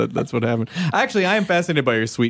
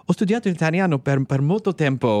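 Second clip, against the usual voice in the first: speaking Italian. Shown as a demonstration. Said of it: "Can you speak another language?".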